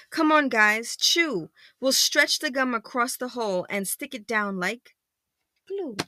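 lightly voiced rallying werewolf; rally the gang without really shouting; werewolf's mild shout. Werewolf urging friends to fix the hole, mild call. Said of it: "The werewolf hands out bubble gum and shouts".

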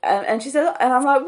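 normal talking voice

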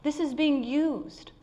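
slow, gentle voice of God; a touch of divine tenderness; tender reassurance. Acted. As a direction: comfort the broken, slowly. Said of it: "assessments of God that says".

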